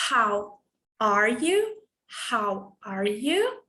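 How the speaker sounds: slow, clear teacher model; slow model phrase. Shown as a demonstration. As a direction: drawl it out for students to copy. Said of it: "always listen and repeat".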